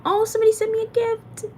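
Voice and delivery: high, bright imitation of her own excitement; mock delighted self-talk. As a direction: play back how giddy you told yourself it was. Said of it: "That's why I kept telling myself".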